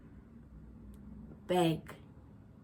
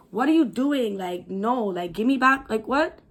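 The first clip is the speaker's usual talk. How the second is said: alarmed protest; 2 semitones higher, 4 dB louder than usual. Retold or imitated. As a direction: demand it back in disbelief. Protesting to attacker, retold.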